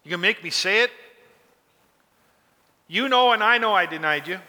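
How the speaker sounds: a touch of hurt, pleading frustration; frustrated groveling. Retold or imitated. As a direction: plead like a man who already apologised. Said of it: "a frustration, a groveling".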